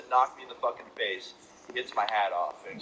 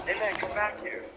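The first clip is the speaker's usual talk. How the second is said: imitated yell; 10 semitones higher than usual. Rival calling him back as he leaves, high mock yell. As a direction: mimic a yell from behind, pitched way up. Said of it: "hear one of them yell".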